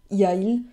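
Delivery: Y a-il with an awkward vowel gap; clumsy hiatus. Shown as a demonstration. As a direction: show how ugly Y a-il sounds with no t. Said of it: "klingt nicht schön".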